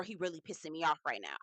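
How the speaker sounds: dropped low, out of the dainty act; bass in the voice. Retold or imitated. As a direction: drop to a low, annoyed grumble. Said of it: "you got bass in your voice now".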